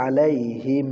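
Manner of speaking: "আলাইহিম" recited with the final m held as a hum; ikhfa. Shown as a demonstration. Teacher shows the ikhfa rule, "আলাইহিম" ending in held m. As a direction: hold the m of "আলাইহিম" in a nasal hum. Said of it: "ইকফায়ে স্বাভাবিক".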